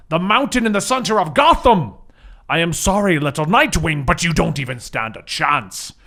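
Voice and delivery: lightly voiced gloating villain; a hint of a big brute's menace; villain monologue. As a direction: monologue like a smug cartoon villain. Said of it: "the voice doesn't fit the body".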